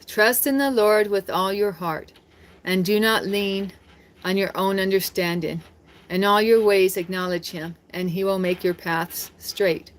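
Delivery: slow, measured Bible reading; slow devotional reading; scripture reading. Acted. Reads scripture aloud.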